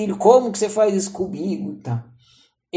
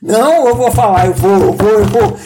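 louder, determined self-pep talk; psyching himself up; resolute; 8 dB louder than usual. Retold or imitated. To himself, resolving to tell his mother: louder determined declaration.

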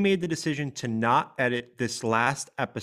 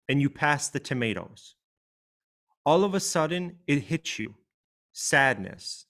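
heartfelt reading. Acted. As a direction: read it gently, letting the grief show. Reads her own meme aloud.

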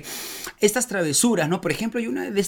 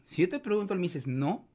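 hushed off-air aside, much softer; 11 dB quieter than usual. Real, not acted. Host quietly coaching his guest off air, hushed. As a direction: drop your voice so only the guest hears. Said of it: "salimos del aire un rato".

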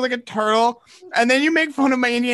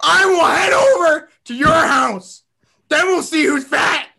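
slow, sobbing shout; hammed-up tearful yell; mock crying threat; 3 semitones higher, 4 dB louder, slower than usual. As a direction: wail the threat through fake tears.

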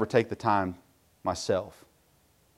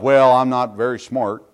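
mock excuse; 6 dB louder than usual. Mocking people's excuse.

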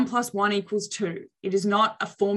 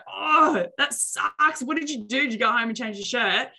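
exaggerated sympathy; 3 semitones higher than usual. Shown as a demonstration. To Dave about his spilt coffee, exaggerated sympathetic concern. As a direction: ham up the sympathy, voice shooting up. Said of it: "scrunch up my face and go".

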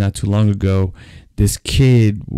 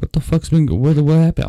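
raised pitch, mildly heated; retold furious uncle; 6 semitones higher than usual. Uncle demanding to know what happened, mock fury. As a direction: imitate an angry uncle, pitch up. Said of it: "like, furious".

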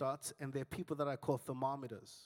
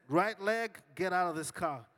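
firmer loud command; 5 dB louder than usual. Retold or imitated. Louder command to leg.

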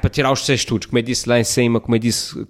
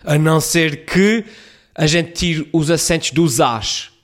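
scheming publisher; 5 semitones higher, 3 dB louder than usual. Retold or imitated.

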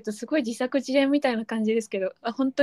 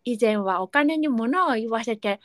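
lightly voiced toothless letter writer; a hint of a gap-toothed speaker; toothless reader. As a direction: read it as if a few teeth are missing. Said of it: "歯がないイメージで読んでみました".

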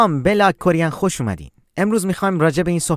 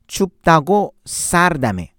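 slow breakdown. Shown as a demonstration.

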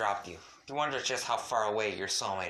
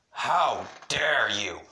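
loud, drawn-out outraged yell; angry yelling; 6 dB louder, much slower than usual. A narrator's reading. Ancestor yells behind the hospital door, outraged. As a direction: bellow it slowly, stretching each word. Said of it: "Your ancestor's muffled yelling".

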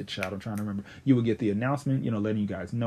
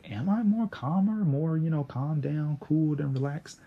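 higher-pitched, mock questioning of oneself; imitated self-questioning; 5 semitones higher than usual. Podcaster replaying their reaction to being called calmer, imitated questioning. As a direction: lift the pitch as if puzzling over a compliment. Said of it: "I would be like".

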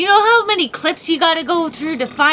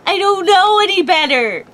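raised, higher-pitched protest; worked up; 5 semitones higher than usual. Real, not acted. Co-host defending herself to her partner, worked up. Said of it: "Why are you so angry?".

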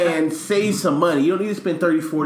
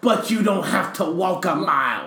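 laughing. Real, not acted. Punchline while laughing.

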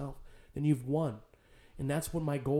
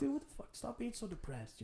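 high, soft exasperated plea; pleading disbelief, voice pitched up; imitated fed-up son; retold exasperation; 8 semitones higher, 7 dB quieter than usual. Retold reply to crying dad.

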